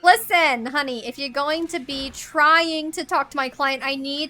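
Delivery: put-on nasal New York nanny accent; Fran. Nanny grilling someone about her client, nasal New York accent. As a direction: talk out your nose like a New York nanny. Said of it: "bringing a certain Fran".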